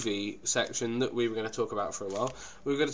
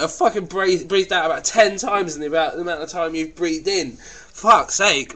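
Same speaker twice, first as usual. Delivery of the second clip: mock exasperation; 4 semitones higher, 3 dB louder than usual. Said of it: "and you're like".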